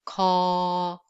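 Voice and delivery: drawn-out plain Korean "Ko"; plain lax k. Shown as a demonstration. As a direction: say "Ko" relaxed and held out. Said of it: "let's just read each sound".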